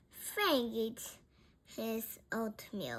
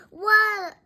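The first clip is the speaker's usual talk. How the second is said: slow, loud, emphatic question; loud, drawn-out demand; 3 semitones higher, 10 dB louder, slower than usual. A narrator's reading. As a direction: ask it over engine noise. Frank shouts over the bike.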